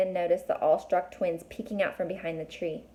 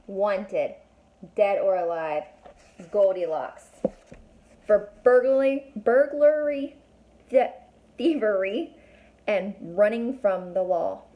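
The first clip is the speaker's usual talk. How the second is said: wanted poster read; 5 dB louder, slower than usual. Acted. Poster read aloud dramatically.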